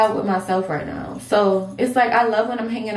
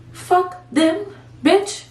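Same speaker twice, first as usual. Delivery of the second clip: defiant hype; 9 semitones higher than usual. Real, not acted. Hyped defiant rant.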